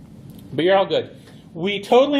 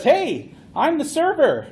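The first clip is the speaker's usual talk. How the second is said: higher, cheerful server greeting; voicing the server; 8 semitones higher than usual. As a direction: play the server saying hello. Server answers in acted conversation.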